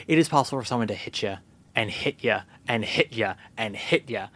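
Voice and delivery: mocking the looping ending line; mock repeated line. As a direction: lean on each hit ya mockingly. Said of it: "it literally ends with, like".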